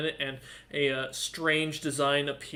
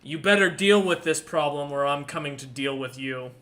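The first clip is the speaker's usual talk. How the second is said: tiefling's threat; 5 dB louder than usual. Acted. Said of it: "the last message in your head".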